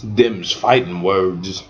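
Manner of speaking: slow, low cowboy-style drawl; mock folksy drawl. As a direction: draw it out in a playful country accent. Stock folksy phrase, playfully put on.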